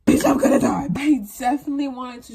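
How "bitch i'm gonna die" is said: whispered dread; panicked whisper. Retold or imitated. To herself, whispering dread before the exam. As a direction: breathe it out in panic.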